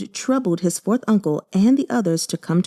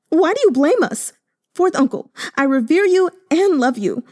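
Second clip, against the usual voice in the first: sobbing; 7 semitones higher than usual. Acted. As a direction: pour it out through sobs, rising. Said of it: "Yue Chunqing sobbed".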